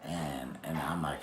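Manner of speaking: ordinary talk, nothing marked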